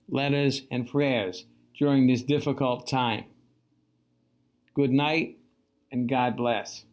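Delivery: a hint of JFK, unhurried and measured; Kennedy impression. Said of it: "That was a terrible impression".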